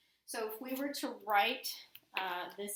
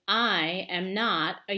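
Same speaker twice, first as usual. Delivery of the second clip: narwhal voice; 8 dB louder, slower than usual. Acted. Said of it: "And he says".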